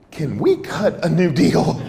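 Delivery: slow, hesitant mock plea; lightly acted nervous request; imitating shaken prisoner. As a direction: plead haltingly, as a caught man bargaining. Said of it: "he's shaking and he said".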